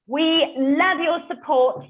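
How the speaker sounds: normal talking voice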